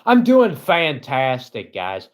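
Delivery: hammed-up upbeat reply to viewers; fake cheerful. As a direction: sell the fake good mood with a sarcastic grin. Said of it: "Okay, the thing I'm supposed to say".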